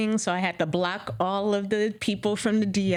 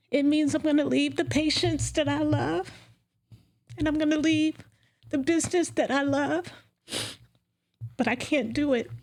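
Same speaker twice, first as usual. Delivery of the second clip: choked up; 5 semitones higher than usual. Real, not acted. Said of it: "ooh, I'm getting emotional".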